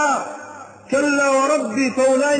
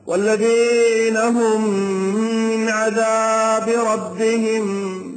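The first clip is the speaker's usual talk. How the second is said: slow chanted Quran recitation, each word drawn out; slow melodic tajweed chant; much slower than usual. Acted. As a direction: chant the verse slowly like a reciter in prayer.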